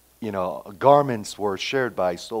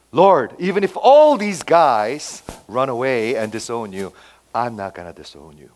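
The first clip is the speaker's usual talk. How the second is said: adamant; 7 dB louder than usual. Retold or imitated. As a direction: insist firmly, quoting a loyal disciple. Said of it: "he was so adamant about it".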